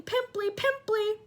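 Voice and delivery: high, slow, loud jeer; yelling taunt. A narrator's reading. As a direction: yell it as a taunt.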